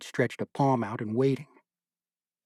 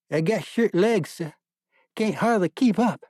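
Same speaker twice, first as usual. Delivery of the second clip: put-on young soldier; 8 semitones higher, 4 dB louder than usual. A narrator's reading. Young soldier answering the major.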